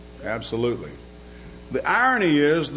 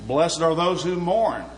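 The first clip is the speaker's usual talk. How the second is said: 1 scripture reading. Acted. Reads scripture in sermon.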